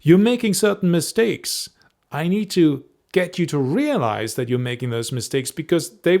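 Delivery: insistent warning to a fellow YouTuber; urgent concerned warning. Shown as a demonstration. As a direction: lean in hard like you've been there and worry for them. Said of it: "It's just the frame for the whole video".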